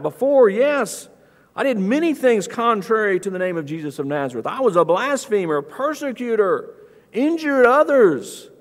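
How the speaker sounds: lightly acted, insistent admission; emphatic confession. Voicing Paul's emphatic confession.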